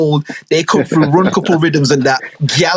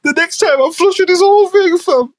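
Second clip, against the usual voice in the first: angry God. Acted. God threatening the flood.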